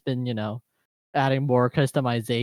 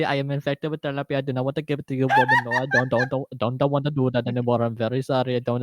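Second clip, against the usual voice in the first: put-on Indian accent; faster than usual. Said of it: "I was doing an Indian accent".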